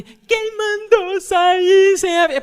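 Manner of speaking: high, slow, loud mock scold; mock scolding sister. Older sister Emanuela scolding him on the phone, mock shrill. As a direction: drag it out like a bossy older sister.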